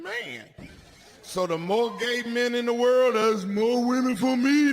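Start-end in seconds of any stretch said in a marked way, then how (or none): 1.2-4.7 building excitement. Real, not acted. Punchline build to crowd.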